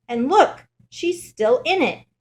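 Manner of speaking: high, loud little bear voice; Baby Bear. A narrator's reading. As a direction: bear cub piping up with a startling discovery. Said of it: "Baby Bear looks at his bed".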